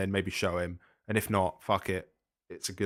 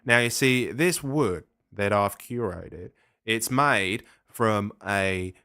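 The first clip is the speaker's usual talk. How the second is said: put-on Australian accent. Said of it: "you were indulging your Australian accent there".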